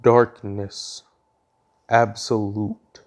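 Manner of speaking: slow, loud booming pronouncement. Acted. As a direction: boom it out like a dark decree. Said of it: "a booming sound goes".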